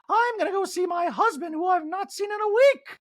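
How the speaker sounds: high mock Dorit; huffy high exit line; Dorit impression. Recapper mocking Dorit leaving, high voice. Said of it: "And Dorit goes".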